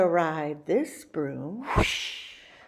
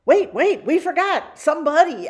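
high, loud sudden realization; surprised; 9 semitones higher, 5 dB louder than usual. A narrator's reading. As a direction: stop everything, you forgot someone. Narrator remembers forgotten stop.

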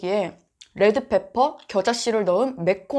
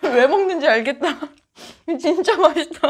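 muffled behind hand; talking while chewing; 4 semitones higher than usual. Real, not acted. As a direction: mouth partly full. Seen 0: Bites sausage at -2; covers mouth while talking, likely still chewing.

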